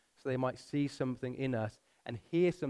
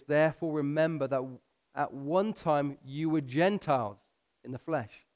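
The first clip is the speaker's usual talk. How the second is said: slow, deliberate scripture reading. Real, not acted. Preacher reading Ephesians to the congregation, slow and deliberate. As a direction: read it slowly with pauses so it sinks in. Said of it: "I'm gonna read it slow".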